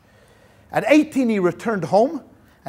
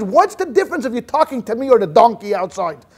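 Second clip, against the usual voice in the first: simple fellow's retort; 2 semitones higher, 6 dB louder than usual. Retold or imitated. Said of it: "So the guy says".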